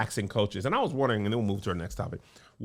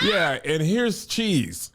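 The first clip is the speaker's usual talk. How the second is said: mock casual tone; 4 semitones higher, 3 dB louder, much slower than usual. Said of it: "You said it like".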